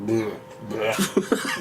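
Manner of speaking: blurted throwaway bleh with a laugh; disgusted noise. Shown as a demonstration. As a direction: imitate an ugly word as a noise. Imitates noise for an ugly word.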